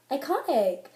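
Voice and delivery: lightly voiced Valley Girl. Reacting to a fall covered up, Valley Girl. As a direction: give it a Valley Girl lilt. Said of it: "say it in a Valley Girl voice".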